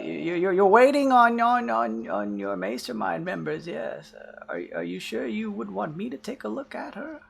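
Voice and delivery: high, stammering nervous voice; stammering scientist. Acted. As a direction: stumble over the words nervously. GM voices stammering X twenty-two.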